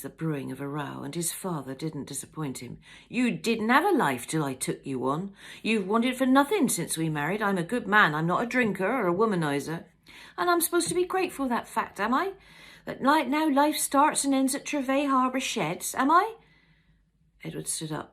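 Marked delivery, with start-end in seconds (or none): 3.1-9.9 louder, angry husband. Acted. Acted quarrel, husband. 10.4-16.4 much higher, louder, faster outburst; furious wife. Acted. Wife explodes in quarrel.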